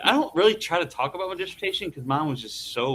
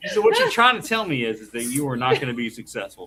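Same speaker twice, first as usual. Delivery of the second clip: HR voice; 3 semitones lower than usual. Retold or imitated. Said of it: "impersonate your spouse's customer service".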